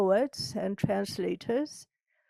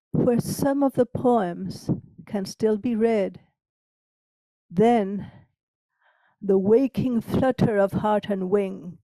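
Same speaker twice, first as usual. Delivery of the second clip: poem recital. Acted. Reads her own sonnet.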